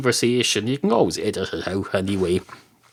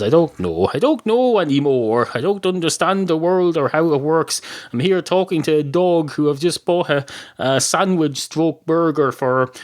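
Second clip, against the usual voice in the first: higher-pitched exasperated rant; 6 semitones higher than usual. Acted. Man baffled at talking to a dog, exasperated. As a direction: throw your hands up in mild despair.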